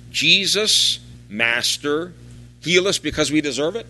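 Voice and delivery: calling Jesus, then rushing the rest fast; half-hearted loud plea, hurried at the end; mild mock call. Lepers calling to Jesus from a distance, mock loud plea. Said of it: "called out in a loud voice".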